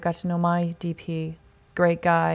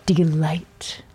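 whispered compliment. Retold or imitated. Compliments him in a hush.

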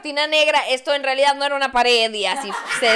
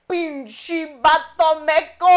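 mock angry mom; 7 dB louder, much slower than usual. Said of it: "que tenía así de".

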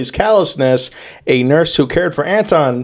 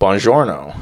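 lower-pitched mock Italian accent; 5 semitones lower than usual. Shown as a demonstration. Comedian showing off accents, mock Italian accent. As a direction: token stab at an Italian accent.

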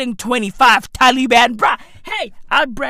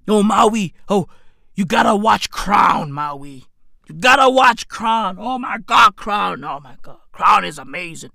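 lower-pitched imitation of a TV fan; lightly mock someone raving about a show; low-voiced parody of a devotee; mock gushing fan; 4 semitones lower than usual. Acts out fans of The Crown.

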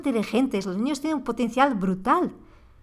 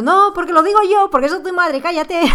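higher and louder, an authoritarian mom snapping; mock angry mother; 7 semitones higher, 8 dB louder than usual. Mother tempted to silence her arguing kids, mock angry shout. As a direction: play the bossy mother shutting down the argument. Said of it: "Aunque me apetece en ese momento".

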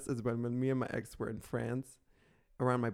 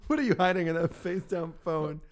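teasing; 5 semitones higher, 3 dB louder than usual. Pretend. Teasing repeat.

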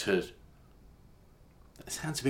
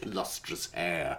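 mock dreamy whisper; 4 semitones lower, 10 dB quieter, much slower than usual. Teasing description of eyebrows, hair.

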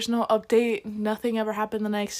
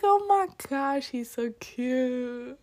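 gushing mock whisper; 3 semitones higher, slower than usual. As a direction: gush like a secret to a friend. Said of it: "whispering in her ear".

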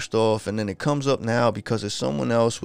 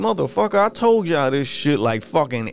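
raised, heated "I told you so"; exasperated rant; 5 semitones higher than usual. Retold or imitated. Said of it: "It's like".

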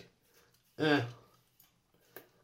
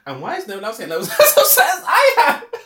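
retold frustrated question; 10 semitones higher, 10 dB louder than usual. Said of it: "I'm like".

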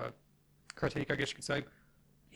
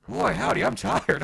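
loud, high, worn-out drawl of a beat veteran; tired older wrestler; 6 semitones higher, 7 dB louder, slower than usual. Retold or imitated. Friend quoting his gassed fifty-year-old teammate, loud and high. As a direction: groan it out like an exhausted old grappler. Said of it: "J D's like".

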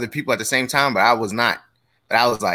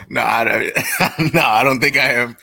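giggling through the words; trying not to laugh; 3 dB louder, slower than usual. Real, not acted. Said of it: "Why you laughing like that?".

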